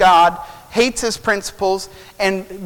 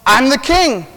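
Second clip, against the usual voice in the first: higher, mildly petulant protest; indignant king; 5 semitones higher, 3 dB louder than usual. Acted. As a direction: pull rank in mock indignation. Acted king pulling rank.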